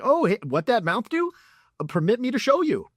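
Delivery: high-pitched put-on woman's voice; exaggerated high come-on; mock flirty woman. Imagined woman answering the catcaller.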